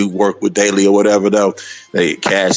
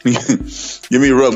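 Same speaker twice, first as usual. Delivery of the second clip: slow words through laughter; drawn out, still laughing; 3 semitones higher, much slower than usual. Real, not acted. Laughing while naming Russell.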